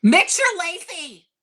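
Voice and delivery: loud mocking jab, slow; mock scolding. Co-host teasing the letter writer, loud mock scolding. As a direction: bellow the insult as a joke.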